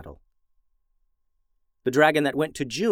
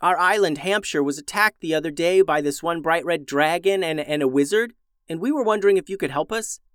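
put-on girl voice; 5 semitones higher than usual. June's voice, higher.

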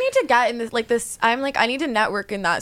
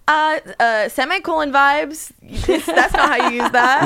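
cool tutor voice; 4 semitones higher, 3 dB louder, slower than usual. Retold or imitated. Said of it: "I try to be, like, cool".

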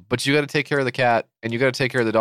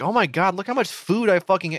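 mock panic; 7 semitones higher than usual. Owner panics at cat food stack.

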